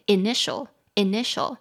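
"initial" with the middle syllable "ni" stressed; teacher modelling "initial", stressed in the middle; stress on second syllable. Shown as a demonstration. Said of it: "重音在第二音节".

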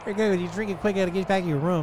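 lightly voiced stoned guide; a hint of a spaced-out stoner. GM voices stoned Guy NPC.

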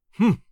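short dismissive humph; brief grunted scoff. A narrator's reading. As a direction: grunt it curtly. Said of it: "grunted Don Diego".

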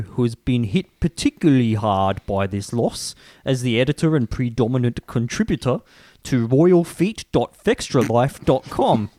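usual speaking voice

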